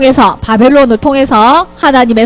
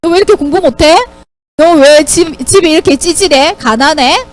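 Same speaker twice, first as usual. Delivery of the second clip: mildly acted jeering questions; teasing mockery; 3 semitones higher than usual. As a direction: needle a believer with light ridicule. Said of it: "이런 식으로 놀리고 모욕할 때". (살짝 비아냥거리며 놀리듯이)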